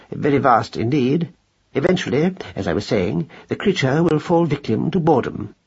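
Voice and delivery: a touch of the lecturing gentleman; lightly voiced pompous father. Mouse father predicts the cat will leave, mildly pompous.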